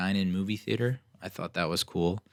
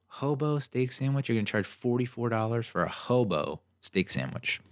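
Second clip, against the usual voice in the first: incredulous; 5 semitones higher than usual. Real, not acted. Mocking the restaurant's menu, high incredulous disbelief.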